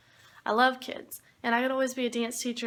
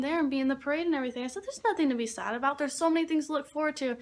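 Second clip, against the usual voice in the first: reassuring; 2 semitones higher than usual. Retold or imitated. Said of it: "I say".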